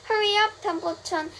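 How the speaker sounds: high, loud urging; urgent hurrying. A narrator's reading. Wilbur urges the rat to hurry, high urgent call.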